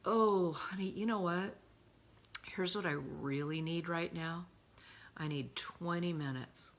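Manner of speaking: warm, kind request to a spouse; loving boundary. Shown as a demonstration. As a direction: gently ask for time, tenderly. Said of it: "then we can lovingly say".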